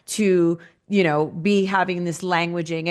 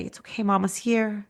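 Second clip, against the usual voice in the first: soothing mother; 4 dB quieter than usual. Acted. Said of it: "you start talking soothing".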